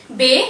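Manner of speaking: बे said "bay"; बे with an "ay" vowel, not "bee"; French letter B. Shown as a demonstration. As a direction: say French B as बे, rhyming with "day". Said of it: "pronounce किया जाता है".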